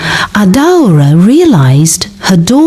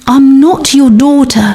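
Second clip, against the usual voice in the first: cold and empty; 8 semitones higher than usual. Acted. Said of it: "Her voice was cold now, empty".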